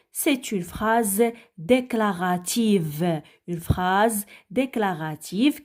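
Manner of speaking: slow, deliberate definition; slow teaching emphasis. Shown as a demonstration. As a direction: draw the words out for the class. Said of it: "ouvrez bien vos oreilles".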